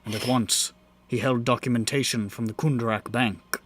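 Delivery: measured dramatic story narration; grand rhythmic bard. Acted. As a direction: tell it like a bard at the fire. Bard narrates the fae tale.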